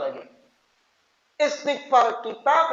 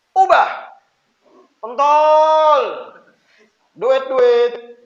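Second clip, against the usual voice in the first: loud, abrupt yell at a parent; brash child's shouted order; rude demand; 3 semitones higher, 8 dB louder, much slower than usual. Acted. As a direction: bellow it like a pushy kid demanding money. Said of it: "Malah pau tempeling abahnya".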